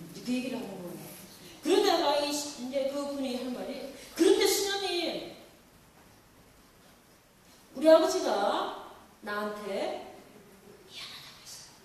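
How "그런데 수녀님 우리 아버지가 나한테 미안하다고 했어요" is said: louder opening that sinks into a whisper; retold tearful words trailing to a whisper; voice fading to tears. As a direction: let the voice die away as tears come. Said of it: "눈물을 이렇게 흘리시더라고요".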